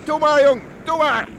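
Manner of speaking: loud urging call from the shore; urging shout. Acted. Onlookers shouting to the swimmer, loud urging. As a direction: yell encouragement out to sea.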